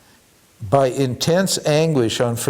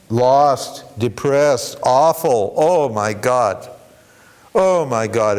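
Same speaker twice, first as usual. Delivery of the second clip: slow, heavy lament; drawn-out words of mild despair; mock anguish; much slower than usual. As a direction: act out a devotee feeling lost. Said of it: "feel awful".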